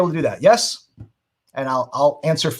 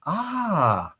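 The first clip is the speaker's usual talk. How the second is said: awed ah; 2 semitones higher, 6 dB quieter than usual. Shown as a demonstration. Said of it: "things that make them go".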